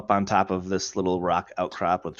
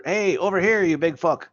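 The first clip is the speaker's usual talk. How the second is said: high, raised calling-out voice; shouting to get attention; 8 semitones higher, 3 dB louder than usual. Acted. Dwarf calling the giant over, acted shouting. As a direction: holler to distract something big. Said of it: "You start shouting at the top of your lungs".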